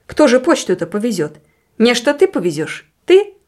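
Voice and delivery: questions climbing in pitch; alarmed. Acted. Husband worried who will carry the mail, alarmed. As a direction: challenge her, rising to a high last word. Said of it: "встревожился Савелий".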